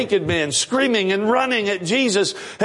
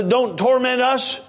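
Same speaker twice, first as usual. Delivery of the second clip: pleading demons; 4 semitones higher than usual. Acted. Demons beg Jesus.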